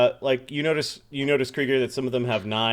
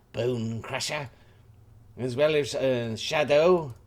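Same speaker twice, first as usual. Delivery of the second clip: put-on French accent. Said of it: "trying to figure out his accent".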